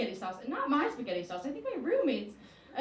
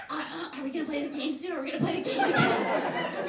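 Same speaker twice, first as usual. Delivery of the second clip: eager pleading. Retold or imitated. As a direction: beg to play like a kid. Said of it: "I was like".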